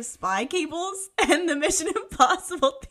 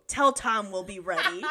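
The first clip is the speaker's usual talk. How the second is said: low, firm mock-manly voice; manliest Freddy voice; 4 semitones lower than usual. Reader redoing Freddy on request, manliest voice. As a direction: declare it like a manly hero. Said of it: "No, manly, manly of manliest".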